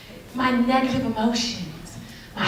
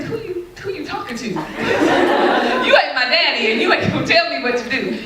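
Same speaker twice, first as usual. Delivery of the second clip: sassy comeback. Retold or imitated. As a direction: talk back to your boyfriend with mock outrage. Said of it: "I said".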